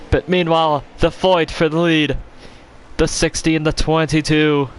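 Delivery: IMSA commentator. Pretend. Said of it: "I'm gonna stop talking like that".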